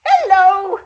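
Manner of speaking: loud, high shout from outside; calling out. Acted. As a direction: sing out a sly greeting at the door. Neighbour calls again at door.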